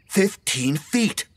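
high, slow, drawn-out shout. A narrator's reading. Deborah running at players, high screamed rule. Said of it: "she shouted".

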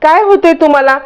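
put-on worried for the old woman; alarmed worry. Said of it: "सगळेजण आता घाबरे घुबरे होतात".

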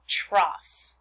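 trough said clearly as "trof"; dictionary pronouncer. Shown as a demonstration. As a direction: pronounce trough with a short "o" and an "f" ending. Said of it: "this word is pronounced".

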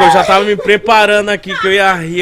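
fired up, expecting a wild tale; excited. Real, not acted. Friend hyped for a crazy travel story, loud and excited.

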